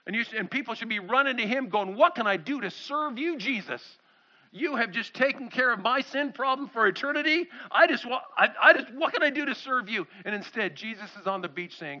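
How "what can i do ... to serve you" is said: urgent, tumbling offer with false starts; eager devotion. Acted. Grateful believer running up to Jesus to serve, eager devotion. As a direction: gush gratitude, a little raised.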